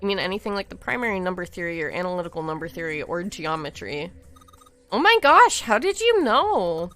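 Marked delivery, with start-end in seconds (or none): 4.9-6.9 high, loud sarcastic astonishment; mock amazement. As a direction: gush with fake wonder, drawn slowly. Mock amazement at obvious guess.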